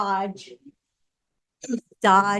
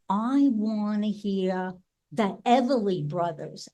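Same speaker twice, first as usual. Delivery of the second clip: put-on Brooklyn accent. Finally naming the group for waiting sister, mock Brooklyn accent. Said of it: "in my best, like, Brooklyn voice".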